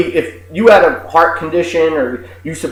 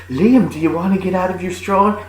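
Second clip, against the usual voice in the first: lightly mocked indulgent mother; hint of a pushover mom; weak-minded mother; 3 semitones higher, 3 dB quieter than usual. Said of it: "the mother, weak-minded asshole, just goes to".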